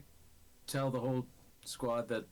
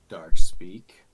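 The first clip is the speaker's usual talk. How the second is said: hushed whisper; 29 dB louder than usual. Acted. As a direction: breathe the words darkly. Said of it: "I will politely say".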